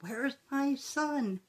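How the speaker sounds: high, slow, panicked call of a mother; a mother's fearful cry for her son; frantic mother. Retold or imitated. Mother arriving at crash scene, high slow fearful call.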